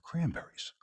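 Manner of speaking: mock triumphant answer; triumphant reveal. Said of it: "I said".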